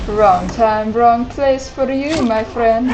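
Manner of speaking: slow, drawn-out menacing echo of the game's line; a light imitation of the game's menacing voice; mock villain line. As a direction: play the ominous villain, half joking. Repeats the game's line back.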